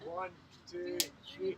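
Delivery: rally the team, full voice; loud team cheer. Real, not acted. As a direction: shout the cheer loudly. Retaken louder cheer.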